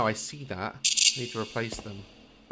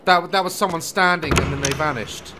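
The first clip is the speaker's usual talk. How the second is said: shaken; 4 semitones higher, 7 dB louder than usual. Real, not acted. Reacting to a vanishing figure.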